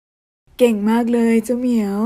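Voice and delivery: a man gently praising his new cat; gentle praise. Acted. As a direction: coo at the cat slowly.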